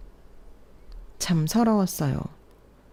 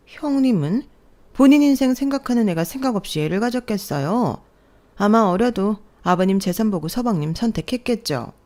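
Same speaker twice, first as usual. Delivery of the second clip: higher, lightly voiced snide sister-in-law; 4 semitones higher than usual. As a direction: needle her with a sly smirk. Second sister-in-law joins the mockery. (얄밉게 비꼬는 형님 목소리)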